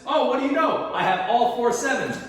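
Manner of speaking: playful mock triumph over a pretend friend. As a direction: crow about the win like a kid. Gloating over winning the sevens.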